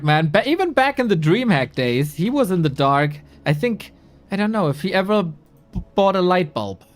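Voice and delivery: ordinary talk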